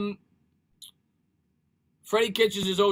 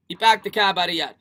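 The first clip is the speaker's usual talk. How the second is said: put-on amateur Boston accent, louder; emphatic mock Boston accent; Dave Gettleman accent; 6 dB louder than usual. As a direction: have a go at Bostonian with dropped r's. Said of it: "I can't speak Bostonian".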